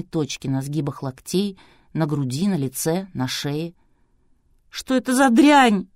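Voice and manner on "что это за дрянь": high, loud wail of disgust. A narrator's reading. Girl wails in horror at her rash, loud. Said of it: "взвыла девушка".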